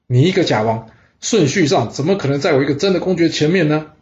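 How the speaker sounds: lightly acted furious duke berating a rival; angry scolding. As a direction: scold him in mild anger. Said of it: "他气得大骂说".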